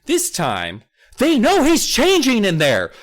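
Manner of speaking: usual speaking voice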